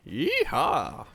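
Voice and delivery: high whooping cowboy holler; cowboy yeehaw. Pretend. Cowboy whoop in game chat.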